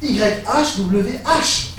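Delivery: letters "Y H W H" spaced far apart; spelled out slowly. Shown as a demonstration. Preacher revealing the acrostic letter by letter, slowly. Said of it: "le nom de Dieu".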